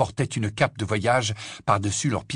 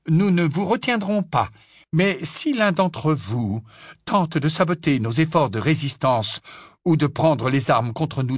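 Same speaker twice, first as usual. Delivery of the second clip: higher, measured warning; stern professor, threatening; 5 semitones higher than usual. Acted. Professor warning Slughorn against sabotage, stern and threatening. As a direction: build firmly towards the final threat.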